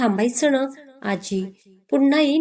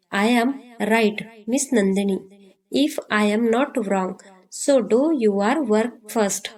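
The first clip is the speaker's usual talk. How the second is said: very slow, each English word dragged out; sarcastic boss drawl; much slower than usual. Acted. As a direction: stretch it out to needle her, like a smug boss. बॉस उपहासाने मुद्दाम सावकाश बोलतो. (उपहासाने, खूप सावकाश ओढत बोलणारा साहेब)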